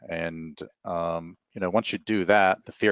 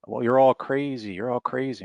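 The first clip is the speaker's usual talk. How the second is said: mock-agitated, higher-pitched complaint; retold terrified man; 6 semitones higher than usual. Frightened older man accosting a maskless walker, mock agitation. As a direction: imitate an alarmed stranger, pitch raised. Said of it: "He's terrified, and he's talking about".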